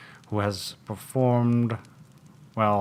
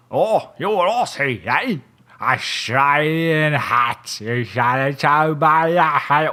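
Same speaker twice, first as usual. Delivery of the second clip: excited deduction; 5 semitones higher, 8 dB louder than usual. Acted. Detective gloats over his deduction.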